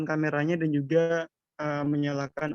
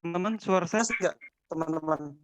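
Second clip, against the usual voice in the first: radio breaking up; much faster than usual. Real, not acted. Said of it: "suaranya putus-putus".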